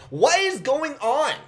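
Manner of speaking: high-pitched baffled outburst; exasperated disbelief. Real, not acted.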